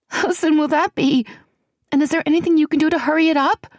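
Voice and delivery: put-on high, hushed and anxious young woman; a nervous friend fretting in a half whisper; frightened young woman. A narrator's reading. Celianne, shaky laugh.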